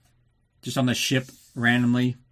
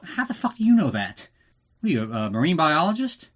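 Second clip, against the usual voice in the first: mock incredulous; 3 semitones higher than usual. Mocking Bond's unlikely knowledge.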